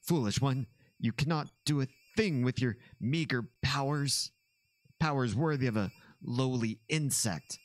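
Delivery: lightly voiced sneering alien villain. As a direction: taunt like a haughty alien tyrant. Reading villain taunt aloud.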